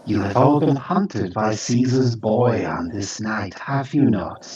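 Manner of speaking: lightly voiced hissing creature. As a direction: question them as a creature, with a hint of hiss. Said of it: "the creature hisses at you".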